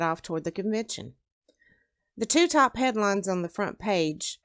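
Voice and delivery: measured read-aloud narrator; story narration. A narrator's reading. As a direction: read the opening of a novel to listeners. Reads own story aloud.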